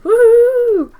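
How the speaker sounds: loud, high cheer of joy; excited whoop. Real, not acted. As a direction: whoop it out with delight. Celebrating the new boys.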